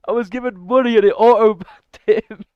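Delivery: can barely get it out for laughing. Real, not acted. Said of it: "Sorry, I'm actually laughing my bum off".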